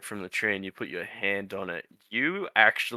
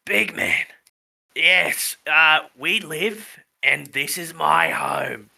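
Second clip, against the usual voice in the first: lightly voiced tree, drawn-out words; slow down into a mild creature voice; 3 semitones higher, much slower than usual. GM resumes tree's voice.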